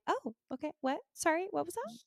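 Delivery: high, soft, flustered little questions; mock flustered delight. Woman imitating her friend melting at a compliment, flustered. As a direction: play distracted by flattery, softly.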